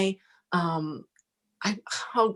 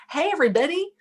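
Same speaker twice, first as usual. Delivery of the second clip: higher, bright call to the whole room; calling out to everyone; 11 semitones higher, faster than usual. Retold or imitated. Shouting to the post office line for attention, calling out high. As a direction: grab the crowd's attention. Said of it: "I just said".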